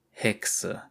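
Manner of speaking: tonlos gehauchtes Schimpfwort; flüstere das Wort bitter; geflüstert. A narrator's reading. Geflüstertes Echo des Schimpfworts. (geflüstert)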